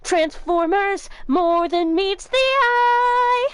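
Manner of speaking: slow booming announcer slogan; movie trailer voice. Pretend. Player quotes the Transformers tagline as a slow, loud announcer.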